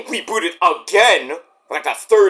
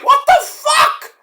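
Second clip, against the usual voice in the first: much higher, loud, slow mock outrage; outraged shout; 4 dB louder, slower than usual. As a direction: yell it in disbelief at the screen. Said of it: "I'm like".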